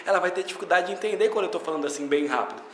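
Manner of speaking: words run together at speed; fast demo of run-together speech; deliberately fast. Shown as a demonstration. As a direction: rush it on purpose, one word into the next. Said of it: "a gente vai falando bem rápido, assim, propositalmente".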